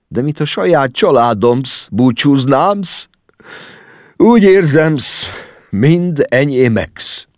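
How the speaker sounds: high, slow tearful wail; choked sobbing. A narrator's reading. Spiro says goodbye as if to his own family, sobbing. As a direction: draw the words out high, choking up. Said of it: "hangja megcsuklott és elfulladt".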